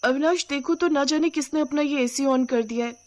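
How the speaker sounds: high-pitched wifely complaint; acted put-out plea; complaining wife. Cold wife complains to husband.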